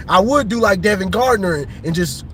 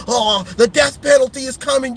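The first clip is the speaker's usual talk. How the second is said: mock pundit; 3 semitones higher than usual. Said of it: "They, they saying Michigan".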